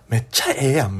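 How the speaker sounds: imitating chatty Kansai girls; lightly voiced Kansai-dialect quote; Kansai accent. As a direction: do a Kansai gal from the seat behind. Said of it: "すっごい関西弁が聞こえてくるんです".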